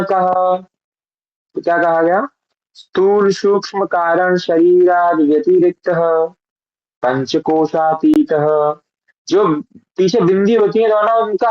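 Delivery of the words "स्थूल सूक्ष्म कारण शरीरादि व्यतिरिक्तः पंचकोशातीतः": slow, careful Sanskrit chant-like reading; mantra recitation. Shown as a demonstration. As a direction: recite the verse syllable by syllable. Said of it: "ये जो पिछला मंत्र था इसको एक बार पढ़े". (धीमा, स्पष्ट संस्कृत पाठ)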